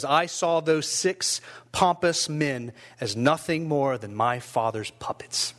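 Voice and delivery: slow, weighty dramatic reading; testimony reading. Acted. Persecuted pastor recalling his six interrogators, slow understated defiance. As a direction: space the words out deliberately, letting the end drop.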